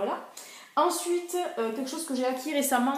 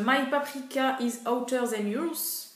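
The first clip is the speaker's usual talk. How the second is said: English nail polish name said with a strong French accent; 2 semitones higher than usual. Real, not acted. Apologising to viewers for her French accent on English. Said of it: "Excusez-moi pour mon accent".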